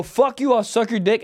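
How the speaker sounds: lightly heated replay of an insult; understated road-rage retort; milder retold comeback. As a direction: toss off the angry comeback in recap. Recaps the same road-rage comeback.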